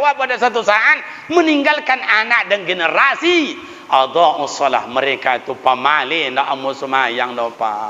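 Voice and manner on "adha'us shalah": ordinary talk, nothing marked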